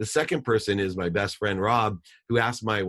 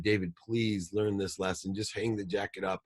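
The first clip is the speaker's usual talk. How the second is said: soft pleading father; 5 dB quieter than usual. Retold or imitated. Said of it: "And he said".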